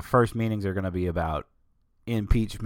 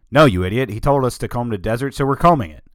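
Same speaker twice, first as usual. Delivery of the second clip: louder, irritated movie quote; imitating megaphone speech; 3 semitones higher, 8 dB louder than usual. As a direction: retort loudly as if through a megaphone. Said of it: "through the megaphone says".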